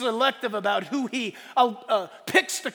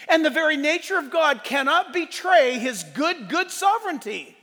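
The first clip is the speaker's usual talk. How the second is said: emphatic, raised sermon conclusion; impassioned preaching; 3 semitones higher than usual. Real, not acted. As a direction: drive the point home to the congregation.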